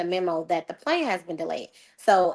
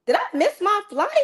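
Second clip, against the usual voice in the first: much higher, anxious squeak of a question; panicked question; 12 semitones higher than usual. Retold or imitated. Arriving at the gate, she frantically asks if she missed it. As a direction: ask it high and frantic, dreading the answer.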